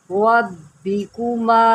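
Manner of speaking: रब्बिकुमा with a thick, full ra; full-mouthed ra in रब्बिकुमा; heavy ra. Shown as a demonstration. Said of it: "रा को मोटा करें".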